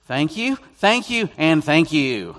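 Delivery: loud, high repeated thanks; mock gratitude. American answering blunt insults about his looks, exaggerated mock thanks. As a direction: punch each thank-you, peaking on the middle one.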